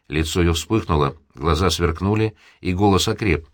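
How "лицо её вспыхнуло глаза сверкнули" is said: usual speaking voice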